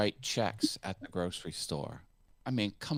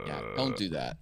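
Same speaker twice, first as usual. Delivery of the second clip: vocal fry; 9 semitones lower, 3 dB quieter than usual. Shown as a demonstration.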